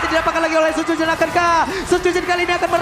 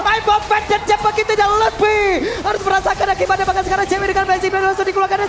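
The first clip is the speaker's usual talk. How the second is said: excited; 3 semitones higher, 3 dB louder than usual. Real, not acted. Hype call of a kill.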